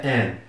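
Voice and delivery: AN said with an open eh, ending in n; pronunciation demo. Shown as a demonstration. Teacher showing how A N sounds, pronunciation demo. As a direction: model "an" as "en". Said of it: "se pronuncia".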